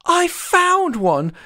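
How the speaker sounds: high, slow delighted cry; little mole's cry. A narrator's reading. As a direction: call out your find proudly. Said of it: "cried a little mole".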